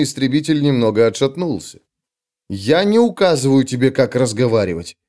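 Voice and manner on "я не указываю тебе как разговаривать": polite. Acted. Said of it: "вежливо, насколько смог".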